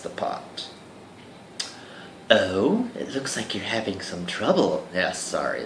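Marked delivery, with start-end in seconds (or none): 2.3-4.9 a hint of a sultry woman, soft; lightly voiced temptress purr. A seductive stranger teasing the trapped hero, lightly sultry. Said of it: "that is my sultry voice".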